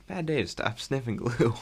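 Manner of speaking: breathy whisper, no voice at all; hushed retold line; whispered quote. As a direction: whisper the line like a secret aside. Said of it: "He goes".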